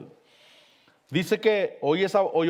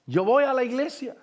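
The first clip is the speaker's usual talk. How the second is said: higher-pitched pleading call, only mildly raised; retold cry out; 5 semitones higher than usual. Preacher retells a dying man crying to the Lord, mild retold shout. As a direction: imitate a man calling up to the Lord, without full shouting. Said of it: "le gritaba al Señor y le decía".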